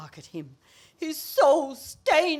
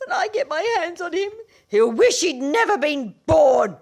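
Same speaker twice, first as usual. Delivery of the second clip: fast then loud threats; vengeful rant; 3 semitones higher, 4 dB louder than usual. Acted. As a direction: storm off after him. Vowing revenge, rushing off.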